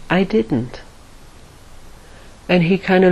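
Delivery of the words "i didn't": put-on a quiet, calm Indian accent-free reply. Dalai Lama answering the journalist's question, very calmly. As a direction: let it land softly and evenly. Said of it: "very calmly".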